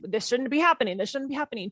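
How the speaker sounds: tense, pushing back against the moment; a touch of indignant protest; resisting, frustrated. Shown as a demonstration. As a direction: say it like you refuse what's happening. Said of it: "when I hijack my default rhythm".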